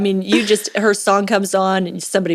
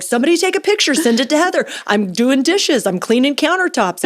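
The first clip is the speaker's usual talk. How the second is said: high-pitched show-off announcement; mock-bragging, pitched up; playful retold boasting; 6 semitones higher than usual. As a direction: call for witnesses, stretching each proud claim. Retold showing off while helping clean.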